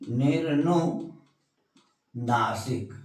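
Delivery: निर्नुनासिक stretched out slowly and softly; slow dictation. Shown as a demonstration. Teacher repeating निर्नुनासिक slowly for the class to write down. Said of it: "क्या है?".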